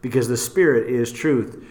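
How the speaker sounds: measured reading, phrases falling low at the ends; scripture reading. Real, not acted. Host reading the King James for comparison, scripture reading.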